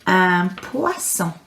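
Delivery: "Un poisson" slow, with the wa sound in "poisson"; slow French word. Shown as a demonstration. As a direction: draw out "poisson" for pupils. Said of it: "Are you ready?".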